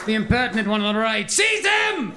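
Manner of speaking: imperious Roman emperor voice; roaring tyrant king. Acted. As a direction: command like a haughty emperor. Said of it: "Emperor of Rome attitude".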